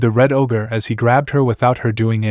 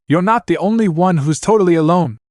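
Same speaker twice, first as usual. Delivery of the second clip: higher, forceful shout; 6 semitones higher than usual. Acted. Naruto to Anna, pained shout. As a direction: make her hear it. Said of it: "he shouted".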